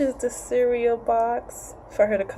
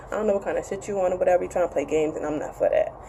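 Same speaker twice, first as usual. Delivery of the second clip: imitating him; 3 dB quieter, faster than usual. Vlogger voicing the man confronting her, mildly. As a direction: rattle it off as his blunt answer. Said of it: "I'm saying shit".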